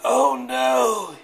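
hoarse cough on oh no. A narrator's reading. Rooster with sore throat, coughing. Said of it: "he coughed".

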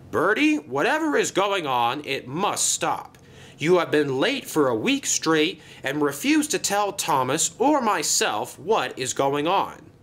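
firm, emphatic reprimand; stern scolding. Acted. Controller scolding a bus for lateness, stern. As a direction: lay down the law.

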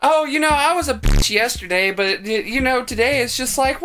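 mock her fake innocence; mocking Vanessa. Commentator mocks Vanessa.

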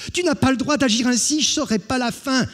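high, loud, fast wail; desperate plea. Acted. Jean to Hugues burning pages, high desperate wail. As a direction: beg like a child losing a toy. Jean pleads for his book.

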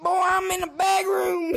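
loud excited shout. Real, not acted. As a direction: yell it out across the room. Shouting across the game.

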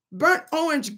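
ordinary talk

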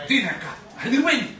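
Dinaka, అదిరిపోయింది rattled off fast and bright; teaching phrase. Shown as a demonstration. Husband teaching viewers Telugu, fast native phrase. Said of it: "you have to say".

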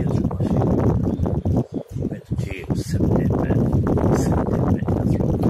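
loud, heated shouting; angry rant. Real, not acted. Man ranting to camera about jail, shouting angrily. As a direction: yell it out in raw frustration.

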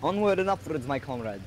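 hammed-up Russian accent, rallying; bad Russian accent. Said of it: "That was a terrible Russian accent".

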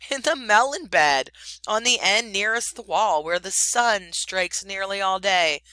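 fawning little bird. Acted. Darzee the bird speaks.

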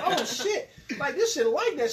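high, delighted exclaim; thrilled by the setup; excited. Retold or imitated. In heaven at the bar.

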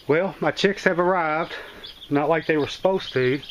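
breathing hard after a climb; winded, talking between breaths. Real, not acted. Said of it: "I'm a little out of breath".

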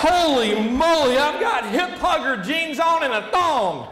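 hammed-up shocked yell; mock alarmed shout. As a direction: shout it like you just noticed. Mock panic in changing room.

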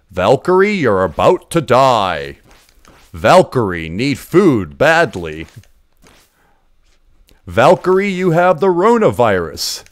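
lightly voiced game narrator giving solemn warnings; arcade game voice. Player mimicking an old arcade game's advice, mock announcer voice. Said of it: "there was, like, a voice for it".

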